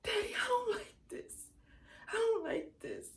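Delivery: put-on high, loud child's whine; whining. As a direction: whine to Daddy like an upset little girl. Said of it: "you started whining like".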